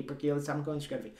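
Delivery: ordinary delivery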